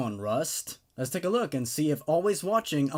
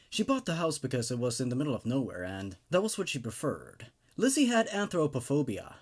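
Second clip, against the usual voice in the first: story narration; 2 semitones lower than usual. A narrator's reading. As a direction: tell the horror tale evenly, drawing listeners in. Reads creepypasta story aloud.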